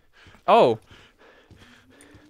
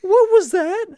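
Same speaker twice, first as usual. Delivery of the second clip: high-pitched, startled question; alarmed question; 10 semitones higher than usual. Real, not acted. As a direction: ask it in a jolt of alarm. Something startles player.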